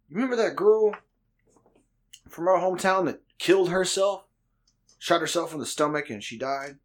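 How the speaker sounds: mock-solemn buddy. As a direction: imitate a friend carefully broaching a sad subject. Retelling buddy's solemn confession.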